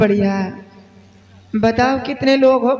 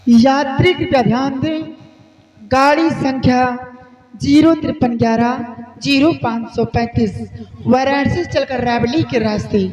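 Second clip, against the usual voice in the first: station announcement. Acted.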